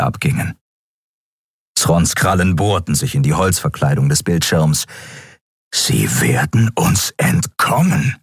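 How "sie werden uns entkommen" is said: slow, grim creature voice, dragged out; menacing alien captain. Acted. Captain watching prey escape, slow and menacing. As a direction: let the threat sink in slowly. Captain Sron growls at the screen.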